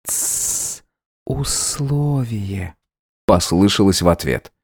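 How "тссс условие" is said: breathy tsss, then a slow soft word; the maid whispering the agreed signal; whispered shush. A narrator's reading. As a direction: hush him in a whisper. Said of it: "тихо-тихо прошептать".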